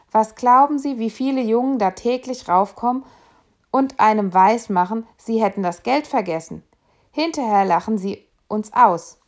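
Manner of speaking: a conductor venting about fare dodgers; indignant conductor. Acted. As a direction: complain to the gentleman about cheeky boys. Conductor complaining to gentleman.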